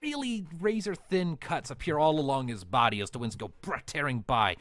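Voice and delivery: vivid combat narration; game master narration. A narrator's reading. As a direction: paint the fight for the players.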